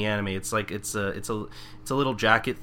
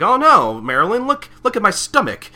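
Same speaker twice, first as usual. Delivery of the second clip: panicked Michael; 12 semitones higher, 11 dB louder than usual. Retold or imitated.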